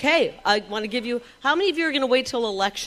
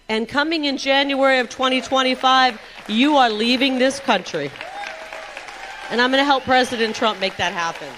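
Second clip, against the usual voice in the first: rally speech; 4 semitones higher, 5 dB louder than usual. Real, not acted. Rally crowd, promise to deport.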